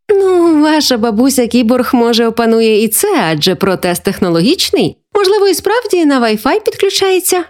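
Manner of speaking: lightly playful grandma, rising high at the end; joking. Acted. Grandma joking about her technological prosthesis, playful. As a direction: muse in mock seriousness. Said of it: "пожартувала вона".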